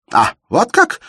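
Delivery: high, loud, stung retort; unsteady voice. A narrator's reading. Shubin stung by Elena's hint about Zoya, unsteady loud voice. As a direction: flare up, voice wavering. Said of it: "начал он неверным голосом".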